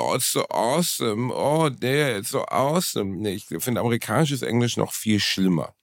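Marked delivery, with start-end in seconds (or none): 0.0-3.2 put-on American accent. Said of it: "Ich find Amerikaner".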